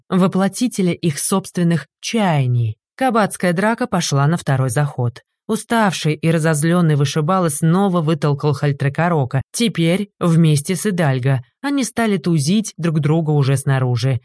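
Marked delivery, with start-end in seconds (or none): none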